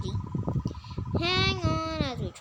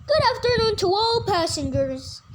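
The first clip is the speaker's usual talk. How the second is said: pilot announcer voice; 4 semitones higher, 4 dB louder than usual. Acted.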